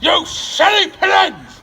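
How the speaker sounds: slow angry shout. Real, not acted. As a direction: yell it at the birds. Shouting at pigeons from roof.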